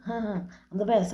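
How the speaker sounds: slow, laughing self-praise; laughing brag. Retold or imitated. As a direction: drawl it out with a laugh. Bragging about partying with a laugh.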